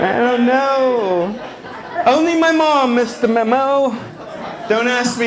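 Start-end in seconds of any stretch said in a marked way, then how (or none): 0.1-1.3 even slower, stretched; slow teasing repeat; drawn out. Acted. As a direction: hang on each word.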